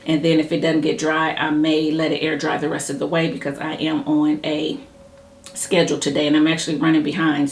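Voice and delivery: hurried, running-behind pace; real rushed, fast talk. Real, not acted. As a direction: rattle it off quickly, pressed for time. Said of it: "that's why I'm talking fast".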